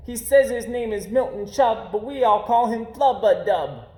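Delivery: high, loud mocking rhyme; teasing rhyme. A narrator's reading. Bullies mocking Milton on the baseball field, jeering. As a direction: jeer it like a bully gang.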